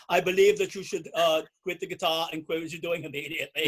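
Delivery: put-on light German accent, a stern adviser. Bandmate mocks a German telling him to quit, light German accent. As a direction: stiff mock German accent. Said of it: "I just imagine that in a German accent".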